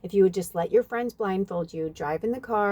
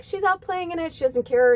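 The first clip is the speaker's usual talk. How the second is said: gushing friend; 11 semitones higher, 5 dB louder than usual. Retold or imitated. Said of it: "She's like".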